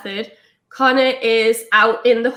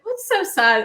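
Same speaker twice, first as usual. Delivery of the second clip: baffled; 8 semitones higher than usual. Retold or imitated. Baffled partner questions her crying.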